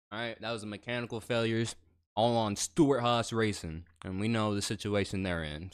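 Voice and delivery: talking with food in mouth; words round a mouthful of food; mouth full. Real, not acted. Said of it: "I got some food in my mouth".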